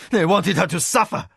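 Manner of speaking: high, loud anguished outburst; a husband crying out in anguished rage. A narrator's reading. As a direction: cry out in anguish. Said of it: "Hokanu cried, anguished".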